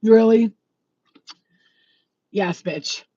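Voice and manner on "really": sarcastic really. Retold or imitated. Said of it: "With her face".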